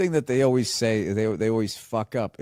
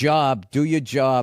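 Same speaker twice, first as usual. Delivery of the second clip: Boston accent; slower than usual. Shown as a demonstration. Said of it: "Say the line again".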